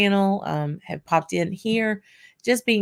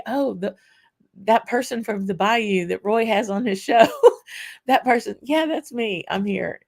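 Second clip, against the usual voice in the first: pitched up, gleeful mock reply; excited self-recognition; 5 semitones higher than usual. Vlogger recounting festival fans, gleeful and pitched up. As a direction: play it like a delighted fan spotted at last. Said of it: "being able to say".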